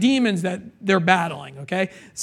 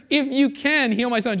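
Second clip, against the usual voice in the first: pleading father; 4 semitones higher than usual. Retold or imitated. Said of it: "Jesus is like".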